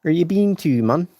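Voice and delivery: a loose Southie guy bragging; a hint of a Boston tough-guy accent. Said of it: "To Boston?".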